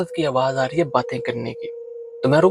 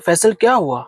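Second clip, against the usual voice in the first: higher and louder, pressing for an answer; urgent worried calling to a silent friend beside the car; 6 semitones higher, 3 dB louder than usual. Retold or imitated. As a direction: call out anxiously to a friend who won't speak.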